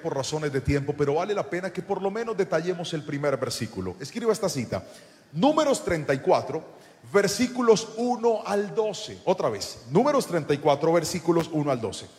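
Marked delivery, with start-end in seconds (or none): 5.3-9.2 measured, spaced-out citation. Real, not acted. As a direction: give listeners time to write it down. Dictates a citation to write down.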